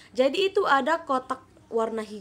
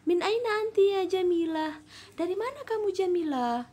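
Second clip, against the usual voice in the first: higher-voiced girl answering; Faridah's reply; 9 semitones higher than usual. Shown as a demonstration. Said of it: "Dijawab Faridah".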